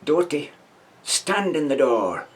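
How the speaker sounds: drawn-out stern order; sergeant's order. Retold or imitated. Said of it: "he says".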